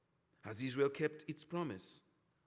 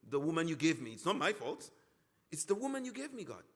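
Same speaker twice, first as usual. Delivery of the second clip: whiny excuse; 4 semitones higher, 3 dB louder than usual. Retold or imitated. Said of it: "Adam comes and".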